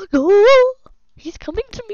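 gasp, then high wailing alarm; panicked cry. Real, not acted. Player being chased, high panicked wail. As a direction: cry out as he closes in. Pursued in game.

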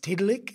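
"Tiddalik" with plain English T and hard final K; European-style pronunciation. Shown as a demonstration. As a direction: say "Tiddalik" the anglicised way. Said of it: "it's not actually really pronounced".

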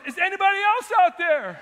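high, loud cry through a laugh; joking punchline. Retold or imitated. Man on the branch calls for someone else, laughing and loud. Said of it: "He goes".

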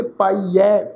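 ਪਾਈਐ ending on an open ai; pronunciation demo. Shown as a demonstration. Teacher explaining the dulavan vowel sign, careful demo of ਪਾਈਐ. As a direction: model ਪਾਈਐ with the final ai fully sounded. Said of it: "ਤੋ pronounce ਕਰਾਂਗੇ".

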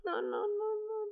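whimpering in disgust. Real, not acted. Reacting to a disgusting fact.

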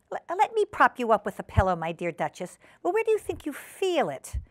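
lightly voiced fussing hostess; solicitous hostess Ribby. Ribby propping up her ailing guest, solicitous. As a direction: offer help, lifting the final question high.

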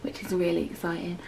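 hushed, excited whisper; whispering excitement. Real, not acted. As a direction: whisper it, barely voiced. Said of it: "I'm whispering".

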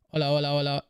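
"hola" repeated on one level note; prueba de voz monótona. Shown as a demonstration. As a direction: test the mic in an even drone. Mic test comparing EQ settings. (prueba de voz en tono monótono)

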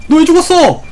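high, loud surprise; startled outcry. Real, not acted. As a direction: burst out in disbelief at the friend. Friend suddenly died in game.

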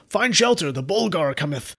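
high, booming doom-laden proclamation; epic fantasy herald. Pretend. Reading a patron's name as a Lord of the Rings warning, epic herald voice. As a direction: announce the monster's coming like a fantasy herald. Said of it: "sounds like something from Lord of the Rings".

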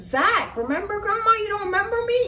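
put-on high, chirpy little-boy voice; little boy Zach. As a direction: play an eager seven-year-old. Zach voice again.

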